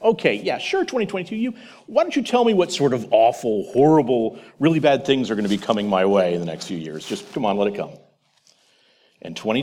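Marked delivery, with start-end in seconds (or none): 0.0-7.9 sarcastic. Retold or imitated. Past self scoffing at future self, sarcastic. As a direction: roll the eyes through it, scoffing. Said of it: "respond in a sarcastic, sarcastic tone".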